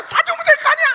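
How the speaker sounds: high, loud shout again; hammed-up shouting mother; exasperated mother. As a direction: yell the same line, still furious. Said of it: "나중에 엄마가 뭐래요".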